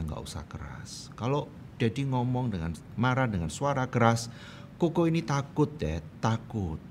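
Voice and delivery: subdued, gently voiced child's plea; permintaan anak. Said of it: "begini dengan sebuah permintaan". (memohon pelan seperti anak kecil)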